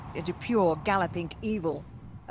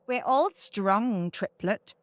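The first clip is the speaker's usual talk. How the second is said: scathing mutter; 2 semitones higher, slower than usual. Acted. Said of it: "the first hag muttered scathingly".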